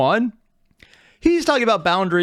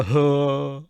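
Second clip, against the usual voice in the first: imitated face noise. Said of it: "the massive bulging eyes and the".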